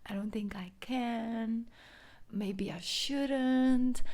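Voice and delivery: worried inner voice, partly whispered, drawn out; anxious inner doubt. Retold or imitated. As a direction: fret and second-guess yourself. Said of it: "Your mind will tell you".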